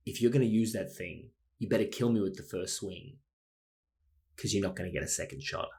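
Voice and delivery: low, steady, menacing calm; quiet deadly warning; cold threat. Retold or imitated. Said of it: "most badass things".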